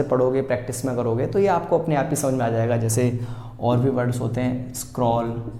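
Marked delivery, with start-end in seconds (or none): 4.7-5.5 teacher says "स्क्रॉल" slowly for students; model pronunciation. Shown as a demonstration. Teacher modelling "स्क्रॉल" for students, carefully. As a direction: clear model reading of "स्क्रॉल" as skrol. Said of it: "कैसे पढ़ा आपने?".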